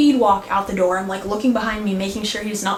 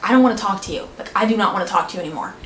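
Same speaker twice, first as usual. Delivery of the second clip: angry; much faster than usual. Retold or imitated. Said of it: "I was so mad".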